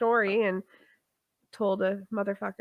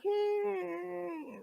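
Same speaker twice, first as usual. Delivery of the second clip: put-on defiant kid; 10 semitones higher, 10 dB quieter than usual. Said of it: "you tell a kid no, and they're like".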